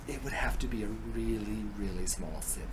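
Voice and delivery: very soft, low concession; hesitant giving in. Acted. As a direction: yield quietly and reluctantly. She hesitantly gives in.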